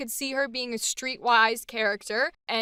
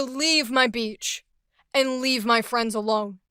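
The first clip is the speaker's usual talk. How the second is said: firm, even, a touch louder; calm controlled anger; 3 dB louder than usual. Acted. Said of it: "Let's see if we can do that for Aster's angry".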